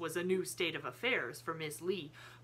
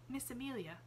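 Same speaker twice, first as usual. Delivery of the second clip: softer, calm low voice; Sarah quietly addresses Miss Amelia; 7 semitones higher, 6 dB quieter than usual. A narrator's reading. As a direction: speak low so as not to excite the child. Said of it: "she said in a low voice".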